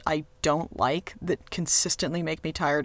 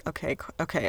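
weary sigh; 8 dB quieter than usual. Retold or imitated. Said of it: "I'm kind of thinking, like".

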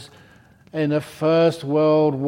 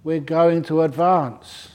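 slow mock order; 3 semitones higher, slower than usual. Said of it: "the message from the general was".

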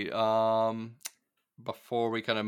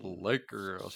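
lightly voiced announcer, softer; a softened imitation of an arena announcer; 5 dB quieter than usual. Host repeating his imitation for the co-host, light announcer voice. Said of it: "best announcer voice".

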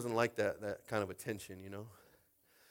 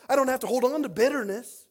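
louder and higher; loud preaching; 10 semitones higher, 8 dB louder than usual. Real, not acted. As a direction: proclaim it. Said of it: "repeated, loud then soft".

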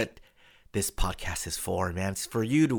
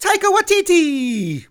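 much higher, louder, slow big reveal; grand announcer reveal; 12 dB louder, slower than usual. Retold or imitated. Host revealing the director, grand announcer. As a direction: roll the name out like a ring announcer. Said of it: "And they're like".

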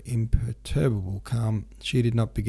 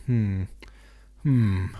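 growl; 4 dB louder than usual. A narrator's reading. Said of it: "growled Pierre".

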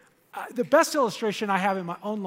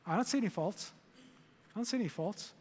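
soft gentle voice of God; 7 dB quieter, faster than usual. Retold or imitated. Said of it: "and he goes".

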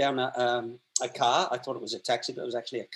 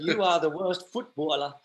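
lightly put-on Geordie manager handing down a verdict; Geordie accent. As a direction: imitate a scornful Geordie boss. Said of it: "his big Geordie accent".

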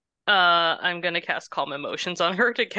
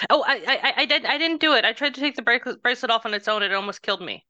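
flustered protest; 5 semitones higher, faster than usual. Acted. Player defends self, flustered.

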